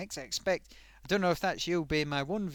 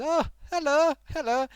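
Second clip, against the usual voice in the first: excited greeting; 10 semitones higher, 11 dB louder than usual. Real, not acted. Greeting a surprise new viewer.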